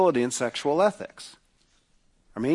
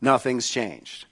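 quiet restatement; 5 semitones lower, 5 dB quieter, slower than usual. Real, not acted. Preacher repeats point quietly.

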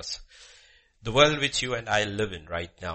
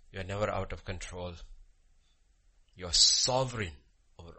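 earnest prayer with long pauses; public prayer. Real, not acted. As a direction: pray aloud, phrase by phrase, swelling and dropping away. Leads the congregation in prayer.

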